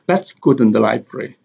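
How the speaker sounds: "Let's" and "go" stressed, "library" unstressed. Shown as a demonstration. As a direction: lean on "Let's go", keep "library" light. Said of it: "let and go have the sentence stress".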